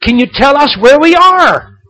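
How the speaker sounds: high, loud call up to the ground. Retold or imitated. George calling down to the man on the ground, loud. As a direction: shout down from the balloon. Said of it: "George just yells out".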